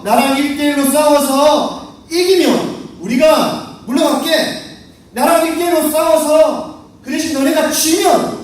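mildly menacing giant issuing terms; threatening challenge. Acted. Goliath challenging the Israelites each morning, threatening. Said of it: "아침마다 협박을 하고".

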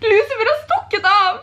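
high-pitched mock wail; put-on distressed cry; feigned panic. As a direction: pretend to announce a disaster. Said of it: "så skal jeg si".

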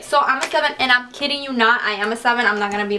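ordinary talk

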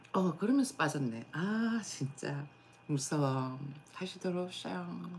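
talking while eating; spoon in mouth. Real, not acted. Seen 2: Spoon held at and into mouth +0.3 to +2.3, then chewing.

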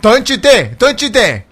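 loud, high urgent shout; urgent warning. Real, not acted. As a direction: warn the enemy off sharply. Warning an enemy mid-fight.

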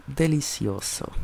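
slow, drawn-out, relishing; savoring voice. Pretend. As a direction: savor each syllable like a gourmet. Savoring cooked steak.

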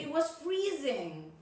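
teacher's intonation model, weight on "freezing"; correct intonation. Shown as a demonstration. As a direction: stress "freezing" as in the dialogue. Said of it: "this is the correct intonation".

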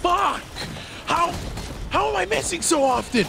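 yelling in frustration at misses. Real, not acted. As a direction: shout it out, fed up. Frustrated miss in game, shouting.

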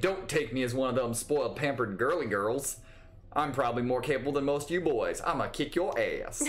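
put-on light southern accent, feisty; lightly southern, standing your ground; hint of a southern US twang. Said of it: "When did she get a southern accent?".

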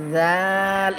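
light জাল, vowel held; thin zal. Shown as a demonstration. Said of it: "এটাও পাতলা, হরফটা পাতলা". (জাল পাতলা করে)

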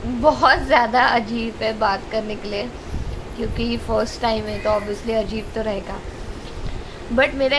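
braces on teeth; speaking around metal brackets; talking with new braces. Real, not acted. Seen 3: metal braces clearly visible on her teeth while speaking.

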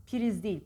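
priz said wrongly with an extra vowel, "piriz"; mispronounced demo. Shown as a demonstration. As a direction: break priz apart as "pi-riz". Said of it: "priz değil".

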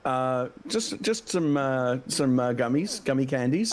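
chewing while talking; mouth full. Real, not acted. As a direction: talk around a mouthful of gummies. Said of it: "what are you eating right now".

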